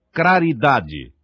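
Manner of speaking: mock the defect: craridade; faulty L as R. Shown as a demonstration. Teacher demonstrating the wrong craridade, slow. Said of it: "pronúncia defeituosa da letra L".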